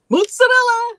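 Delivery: high, loud, over-the-top Italian Mozzarella; exaggerated mozzarella. Shown as a demonstration. Showing how the family said it, a loud hammy Italian cry. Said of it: "we said mozzarella".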